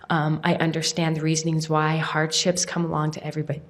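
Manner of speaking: talking while choking on spit; throat catching on spit. Real, not acted. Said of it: "Sorry, I'm choking on my spit".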